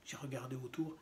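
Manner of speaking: understated literary reading in measured phrases; poetry reading. Acted. Reader recounts a talk with mother about dying, understated poetry reading. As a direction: read it as verse, pausing between short phrases. Continues reading the poem aloud.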